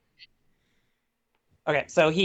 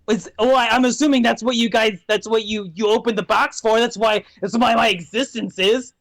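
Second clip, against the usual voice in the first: complaining imp. Acted. Imp complains about his existence.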